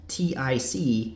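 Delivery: T I C said slowly, letter by letter; slow separate letter names for T I C; spelled out. Shown as a demonstration. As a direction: spell T I C one letter at a time. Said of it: "it's pronounced".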